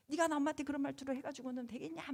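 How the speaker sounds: a hint of a nagging scold; scolding mom. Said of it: "막 혼났을 때".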